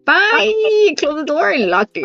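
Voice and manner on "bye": put-on dismissive child's goodbye. Daughter shooing visitor out, retold.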